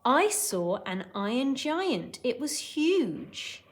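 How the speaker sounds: slow, lightly voiced awestruck boy; Hogarth. Teacher as Hogarth telling Dad about the giant, lightly acted awe. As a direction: stretch it out, pitch lifting on the second sentence. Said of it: "Then Hogarth replies".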